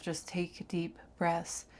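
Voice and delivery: slow whisper to calm yourself; whispered mantra. Retold or imitated. Whispering to herself frozen on the floor to stay calm. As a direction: breathe the words out softly. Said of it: "I keep telling myself".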